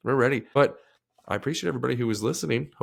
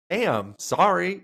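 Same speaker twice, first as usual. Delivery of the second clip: put-on meek kid; 7 semitones higher, much slower than usual. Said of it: "And I'm like".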